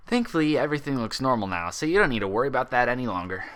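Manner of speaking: easygoing doctor, lightly voiced. Doctor reassures her.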